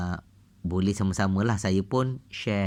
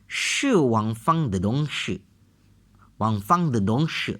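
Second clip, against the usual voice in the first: slow model reading. Shown as a demonstration.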